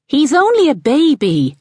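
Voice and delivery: high-pitched call across the garden. A narrator's reading. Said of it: "Ali had called".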